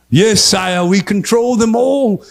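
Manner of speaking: lightly voiced obedient henchman; put-on solemn conspirator; conspiring minion. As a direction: answer like a servant to a dark lord, drawing out line endings. Plays a minion and master.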